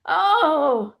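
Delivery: high, slow, hammed-up wail over her ankles; crumbled on the floor, a gymnast wails in mock pain; mock moaning. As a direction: ham up a gymnast crying about her ankles. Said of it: "crumbles to the floor and goes".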